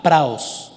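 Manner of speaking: "praos" stressed on the A. Shown as a demonstration. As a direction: pronounce Greek "praos" with accented A. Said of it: "con acento en la A".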